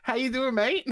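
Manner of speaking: high, cheery customer service voice. Pretend. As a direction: greet them like a shop assistant. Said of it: "this is our customer service voice".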